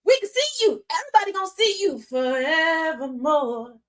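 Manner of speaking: high, sassy comeback; mock scolding. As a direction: throw it back at her. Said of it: "And he was like".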